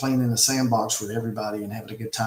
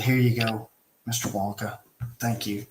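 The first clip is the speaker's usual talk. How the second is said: real gentle; 2 semitones lower than usual. Retold or imitated. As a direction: hand it over gently, not mad. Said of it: "real gentle, not mad".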